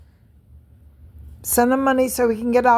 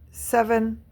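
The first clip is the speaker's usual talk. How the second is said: slow whisper of "Seven Spalding", much softer; whispered name; 7 dB quieter, slower than usual. Real, not acted. Naming her brother to viewers in a slow contemptuous whisper. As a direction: breathe his full name, unvoiced and slow.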